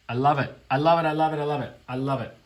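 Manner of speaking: gleeful loud I love it; loud gush. Real, not acted. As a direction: burst out with joy. Bursting with delight.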